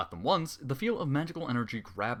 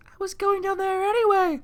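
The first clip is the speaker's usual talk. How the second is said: much higher, squeaky pony voice; timid pony, pitched way up; Fluttershy voice; 9 dB louder than usual. Acted. Fluttershy answers the villain.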